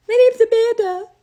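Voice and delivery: put-on high, small child answering; little kid voice. A ten-year-old answering Jesus on the throne, high and small. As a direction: pipe up like a scared little girl.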